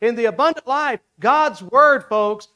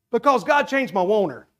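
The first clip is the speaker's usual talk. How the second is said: Southern accent. Shown as a demonstration. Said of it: "How would y'all say that?".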